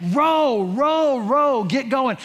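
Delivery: high, loud yell to row. Retold or imitated. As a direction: shout them on across the river. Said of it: "I'm just yelling as loud as I can".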